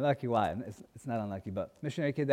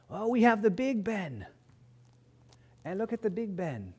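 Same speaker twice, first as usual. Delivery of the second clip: put-on bragging English girl; 8 semitones higher than usual. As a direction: savour the brag like a proud little girl. Imitating English girl showing off.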